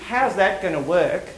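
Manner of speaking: slow, sceptical how's that gonna work, doubting the idea; doubtful. Shown as a demonstration. To the president, slowly doubting it can work. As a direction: drag it out like you're shooting the idea down. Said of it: "You see the difference?".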